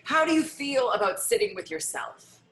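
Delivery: measured meditation leader, pausing between prompts; guided meditation. Acted. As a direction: invite listeners to notice, one unhurried prompt at a time.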